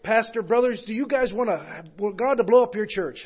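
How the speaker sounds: imitating a Maine visitor's accent. A Mainer asking the pastors, in a light Maine accent. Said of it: "so he's got that Maine accent".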